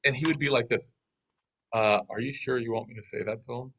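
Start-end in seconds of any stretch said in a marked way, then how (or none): 1.7-3.7 softer, tentative questioning; weak, hesitant. Retold or imitated. Translator unsure about relaying the message, weak and hesitant. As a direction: imitate a timid translator checking his orders. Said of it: "our translator was weak".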